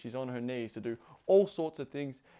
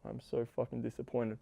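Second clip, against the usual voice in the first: mock disappointment. Shown as a demonstration. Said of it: "in a fun way you're saying it".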